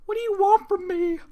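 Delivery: tiny pony voice begging; timid Fluttershy. Acted. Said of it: "she asked timidly".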